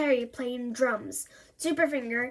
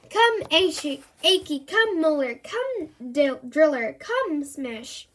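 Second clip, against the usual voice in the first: lightly higher fairy calling her helpers; Tooth Fairy calling; 5 semitones higher than usual. Acted. Tooth Fairy calling her helpers to the treehouse, higher voice. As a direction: call the helpers by name. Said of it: "she whistled and shouted and called".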